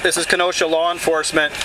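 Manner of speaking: loudspeaker announcement; blasting sound cannon. Real, not acted. Loudspeaker order to the crowd.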